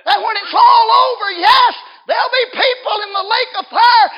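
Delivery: very high, very loud pulpit cry; shouted preaching. Real, not acted. Preacher warns of the lake of fire, full-force shouting. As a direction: shout the warning over the whole church. Sermon climax, shouted warning.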